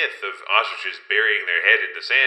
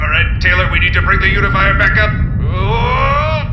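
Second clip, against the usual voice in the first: urgent loud shout; 9 semitones higher, 9 dB louder than usual. Acted. Risky dive, urgent.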